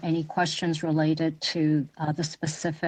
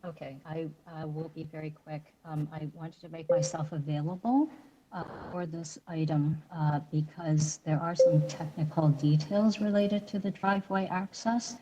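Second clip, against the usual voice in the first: very faint, hard to hear; barely audible over the line; 5 dB quieter than usual. Real, not acted. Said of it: "I, I can't hear at all".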